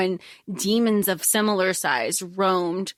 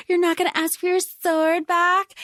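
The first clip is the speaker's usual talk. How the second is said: snide villain quote; 7 semitones higher than usual. Retold or imitated. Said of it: "she's like".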